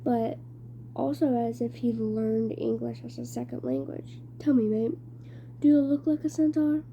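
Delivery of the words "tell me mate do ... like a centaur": put-on strange British-ish accent. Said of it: "He had a strange accent, British, maybe?".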